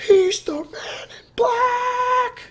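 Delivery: high, slow, breathy whispered squeal; hammed-up fans yelling the twist; mock gleeful reveal. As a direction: blurt the spoiler in hushed glee. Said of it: "everybody was just like".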